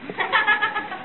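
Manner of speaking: short high laugh. Real, not acted. Laugh after the story.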